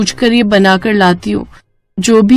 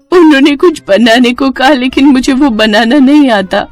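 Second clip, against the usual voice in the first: put-on higher-pitched, upset young wife; tearful confession; 6 semitones higher than usual. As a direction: plead helplessly to your mother-in-law. Weeping daughter-in-law confides in mother-in-law. (रुआँसी आवाज़ में)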